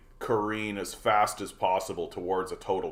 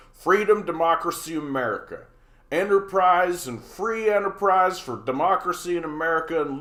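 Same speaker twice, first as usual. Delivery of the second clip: much higher and louder hammed-up stump speech; mock politician speech; 6 semitones higher, 4 dB louder than usual. Parodying politicians reciting buzzwords, hammed-up, much higher and louder. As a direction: bellow the buzzwords like a pandering politician. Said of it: "comedians make fun of this".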